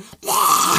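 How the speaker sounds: loud unvoiced demon noise; hammed-up monster entrance sound; mock demon roar. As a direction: burst out with a rough, noisy pretend roar. Imitates demon coming out.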